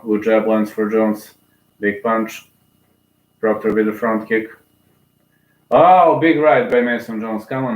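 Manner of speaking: running fight commentary, brisk and engaged; live play-by-play. Real, not acted. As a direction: call every strike as it lands.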